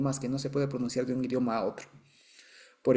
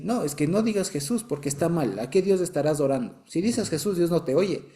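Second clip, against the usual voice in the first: mock objection; 3 semitones higher than usual. Acting out an objector's scolding.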